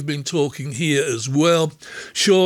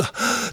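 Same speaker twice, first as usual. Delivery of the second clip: deep breath in; 6 dB quieter than usual. Real, not acted. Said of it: "take a deep breath".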